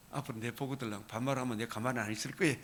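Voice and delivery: quick, quiet, laughing through the words; half-laughing imitation of the neighbor's scolding; laughing mock quote. Preacher retelling neighbor's warning about casual speech, laughing quickly. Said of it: "막 뭐라 그러더라고".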